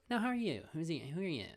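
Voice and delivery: high, loud probing question; teacher high probe. Retold or imitated. Teacher questioning the third student, high and probing. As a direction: probe her like a grand guru.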